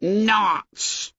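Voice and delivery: high sudden scoff; boy shocked out of good manners; shocked outburst. A narrator's reading. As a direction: blurt it out in shock. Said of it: "shocked out of decorum".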